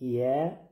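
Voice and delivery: یه said with a light, fronted long vowel; light "yae" for یه; thin ya. Shown as a demonstration. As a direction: keep the ya in یه thin and stretched. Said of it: "یا باید باریک تلفظ شود".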